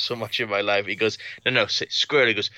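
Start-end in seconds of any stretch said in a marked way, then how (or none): 1.5-2.3 a hint of Trump coaching; Trump impression. Trump coaching the puppet on squirrel, mild Trump voice. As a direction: coax the word, lightly as Trump. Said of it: "a guy doing an impression of Donald Trump".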